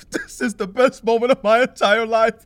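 delighted laughing line; laughing gleefully. Acted. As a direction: cackle through it with glee. Laughing at the awkward scene.

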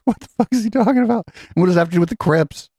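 high-pitched, laughing disbelief; baffled, squeaky laugh-talk; incredulous laughter. Real, not acted. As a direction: crack up while asking, voice shooting up. Cracking up at the clip.

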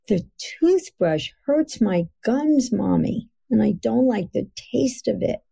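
a hint of a small daughter whining about her gums; child's voice.

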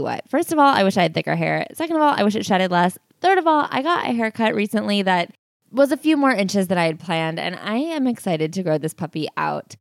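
upbeat sponsor read, clear and even. Acted. Podcast host reading a sponsor spot to listeners, upbeat ad read. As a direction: sell it like a friendly podcast ad.

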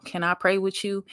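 lifted, direct spoken offer; said out loud. Retold or imitated. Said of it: "I said that out loud".

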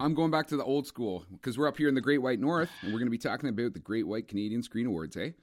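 lightly hammed-up Canadian hoser accent. Defending old-school reference to co-host, mock Canadian accent. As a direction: lay on some Canadian hoser talk. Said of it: "that's my Canadian accent".

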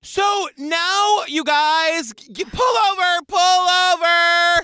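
calling to listeners to stop the car, urgent shout. Real, not acted. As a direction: shout it out like a mock alarm.

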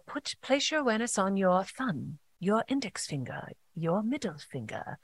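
soft British meditation guide; British accent. Retold or imitated. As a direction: imitate a British guide, softly naming each body part. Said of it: "shout out to your British accent".

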